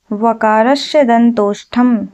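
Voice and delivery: slow, measured Sanskrit formula; slow mnemonic recital. Shown as a demonstration. Teacher giving the trick for lip-teeth sounds, slow recital. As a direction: spell out the formula slowly.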